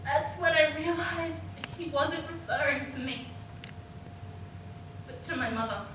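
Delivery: low, soft, holding back tears; subdued realization. Acted. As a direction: sink down after the outburst. Subdued realization after the outburst.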